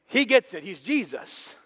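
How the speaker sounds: high, loud punch; emphatic exclaim. Real, not acted. Preacher insisting Jesus deserves it, loud high exclaim. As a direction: burst out with certainty.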